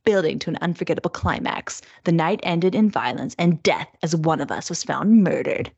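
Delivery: measured thriller-blurb narration; deliberate, dramatic read-aloud phrasing; audiobook voice. Acted. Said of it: "That's my audiobook voice".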